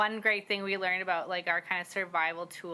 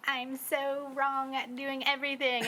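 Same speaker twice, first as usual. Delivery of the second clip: doubtful adult; 7 semitones higher than usual. Retold or imitated. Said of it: "We're like".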